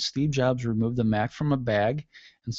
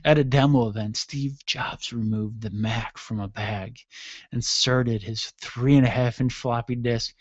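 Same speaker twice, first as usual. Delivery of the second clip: sexy-way read. Shown as a demonstration. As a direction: draw out the tech facts as mock seduction. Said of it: "let's say this in a sexy way".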